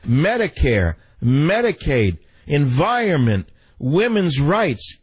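slow, drawn-out campaign-speech voice; a hint of Hillary Clinton stumping; mock Hillary Clinton. Shown as a demonstration. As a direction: lightly mimic a measured politician. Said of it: "so that I sound like Hillary Clinton".

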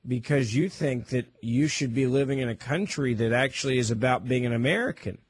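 low, sarcastic reproach. Pretend. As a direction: keep a straight face while feigning disapproval. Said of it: "I'm being sarcastic".

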